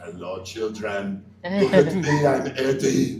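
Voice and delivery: hammy monster voice, slow then loud; a hint of a bogeyman teasing the kids; creepy playful under bed whisper. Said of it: "He's gonna be voicing a movie".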